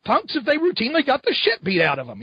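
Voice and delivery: high indignant rant; mock outraged rant. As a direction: play the fed-up vigilante fan.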